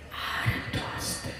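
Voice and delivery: mock whisper to the crowd. Shown as a demonstration. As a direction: breathe it as a hushed request. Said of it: "যত আস্তে করে বলতে বলো". (ফিসফিস করে অনুরোধ)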